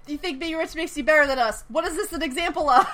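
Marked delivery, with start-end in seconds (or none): 0.1-1.7 higher, louder mock class-war line; hammed-up defiant quote. Shown as a demonstration. Host reads the line for her co-host, hammed-up and defiant. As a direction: play it up for the friend, a touch indignant. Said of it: "Say the thing".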